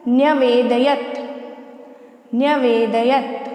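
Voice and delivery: न्यवेदयत spelled out slowly as nya-ve-da-yat; careful Sanskrit pronunciation. Shown as a demonstration. Teacher models न्यवेदयत slowly so students can repeat it. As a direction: sound out every syllable of न्यवेदयत slowly. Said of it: "उच्चारित करके दिखा देती हूँ".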